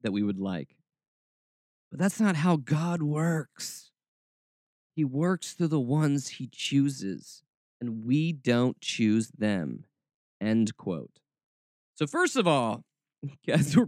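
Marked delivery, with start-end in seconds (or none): 1.9-9.9 slow, lightly mocking Southern preacher delivery; a slow Southern put-on; mocking Southern accent. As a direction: read it out in a drawn-out Southern mock. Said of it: "my Southern roots come out".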